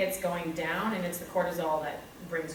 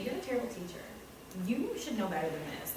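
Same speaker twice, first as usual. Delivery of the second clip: inner critic voice; 8 dB quieter than usual. Retold or imitated. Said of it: "the voice is saying to me".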